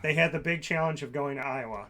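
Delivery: understated deadpan sarcasm; facetious. Real, not acted. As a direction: slip in the jab as if sincere. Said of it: "I was being facetious".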